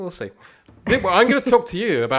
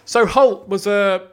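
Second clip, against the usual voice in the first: put-on slow, last trace of Australian accent; 5 semitones higher, 6 dB louder, slower than usual. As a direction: let the Australian accent fade. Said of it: "I'll drop it".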